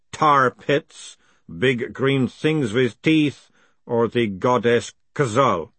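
slow, intoning golem recitation. Acted. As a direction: recite it like an ancient creed. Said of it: "The golem's voice got deeper, as if he was quoting from memory".

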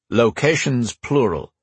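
Locations plural slowly and firmly; slow correction on plural; correcting. A narrator's reading. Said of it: "corrected Gary".

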